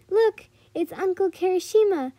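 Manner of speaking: put-on high, excited little-girl call; giggly joking. A narrator's reading. Little girl joking at the shark tank, giggly. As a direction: point it out with high-pitched glee. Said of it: "she giggled as she chuckled".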